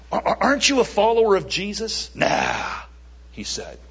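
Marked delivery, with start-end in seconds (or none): 0.1-2.1 high, quick, stammered question; little girl. Acted. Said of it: "A little girl said". 2.1-2.8 dismissive denial. Acted. Peter brushing off the girl's question.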